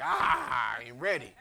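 hammed-up loud excuses, climbing high; mock protest building to a high shout; balking churchgoer. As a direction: act out a churchgoer wriggling out of a promise. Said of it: "And you're like".

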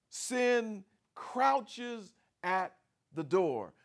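Sin drawn out slow and weighty; slow menacing quote. Shown as a demonstration. Preacher describing sin as a tiger, slow and menacing. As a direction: let "Sin crouches" creep slowly. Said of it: "literally like a tiger".

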